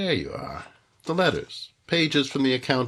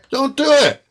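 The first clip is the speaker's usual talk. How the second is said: high, loud panicked scream of a plea; terrified plea; 10 semitones higher, 10 dB louder than usual. Acted. Victim screams at gunman, high and terrified. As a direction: beg for your life. Victim begs before shot.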